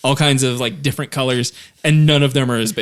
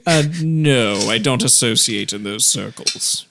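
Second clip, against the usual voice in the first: lightly hammed-up rich man's posh accent; offended posh gentleman, accent turned way up; 3 semitones higher, slower than usual. Specialist sniffs at the adventurer in a hammed-up posh accent. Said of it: "turned the accent up to a hundred".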